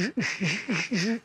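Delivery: very slow, high stammer on je and ch-; stuttering Charlie. Acted. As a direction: drag out the stutter until S F R comes. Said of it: "un mec qui bégaye".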